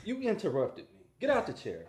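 creepy scolding, starting high and falling; mock menace in a strained small voice; Red from Us. Impressionist scolding the interrupting co-host in character, creepy strained voice. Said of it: "the girl with the messed up voice".

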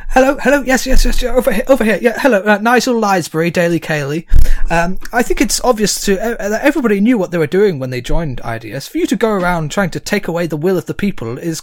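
loud, high reporter hollering for attention; brash tabloid reporter. Acted. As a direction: bark the question like a hack. GM plays tabloid reporter Nigel.

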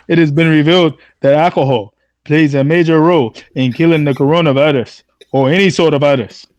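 reading the governor's words in a lightly put-on Kenyan accent; a hint of a Kenyan accent, half mocking; mock Kenyan accent quoting the governor; Wakandan accent. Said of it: "that Wakandan accent that you gave".

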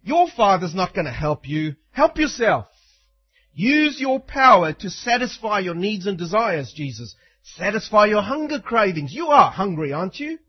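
a hint of a wheedling tempter; lightly voiced devil, pushy then coaxing; Satan's tempting voice. Preacher voicing Satan pushing Jesus to help himself. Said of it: "He was saying it in this way".

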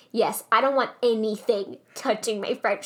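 tight fake smile, words pushed through the teeth; a forced grin while she insists; grinning through her teeth. A waitress mimics a customer grinning through her teeth. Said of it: "grinning through her teeth".

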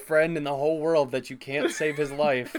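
laughing. Real, not acted. Mocking the movie's plot.

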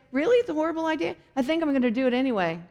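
quick, dismissive comeback; defiant friend. Pretend. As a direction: brush off the advice fast. Friend's defiant reply voiced.

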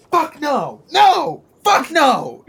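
high, full-throated furious scream; offstage scream. Acted. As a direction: scream it from the back room, outraged. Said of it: "there's this scream of just".

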